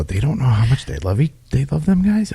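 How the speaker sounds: high mock voice of listeners; mocking imitation. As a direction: parody the garbled line. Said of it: "they're gonna go".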